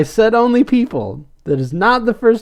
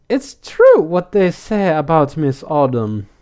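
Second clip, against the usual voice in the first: tentative German-accented impression; German or Nordic accent; 2 semitones lower than usual. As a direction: have a rough go at a Nordic accent. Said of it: "she talks with this German or Nordic accent".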